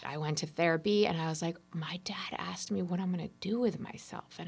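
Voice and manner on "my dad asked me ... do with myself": softly whispered, half-secret; hushed retelling. Retold or imitated. Telling her therapist about dad's question, whispered. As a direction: whisper it like a confession.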